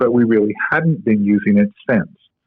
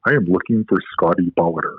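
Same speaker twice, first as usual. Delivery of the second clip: very deep voice; 5 semitones lower, 4 dB quieter than usual. Retold or imitated. Stranger at conference asking for Scotty, deep voice. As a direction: imitate the guy's deep rumble as he walks up. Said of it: "in a very deep voice".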